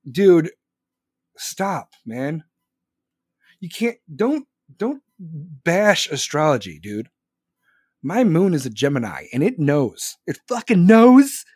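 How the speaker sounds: mock indignation bursting into a loud outcry; aggrieved true believer, punching words hard; offended astrology believer. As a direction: defend your star sign with hammed-up outrage.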